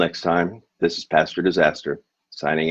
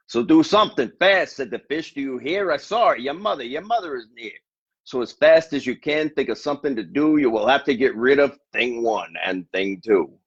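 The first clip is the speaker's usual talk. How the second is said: urgent fish; 5 semitones higher than usual. Acted. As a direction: hurry them up in the fish's high voice. Fish urges the boy.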